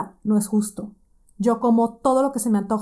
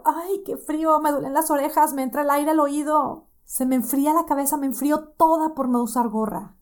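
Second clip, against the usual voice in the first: higher, whining about the cold; whiny complaining; 5 semitones higher than usual. Retold or imitated.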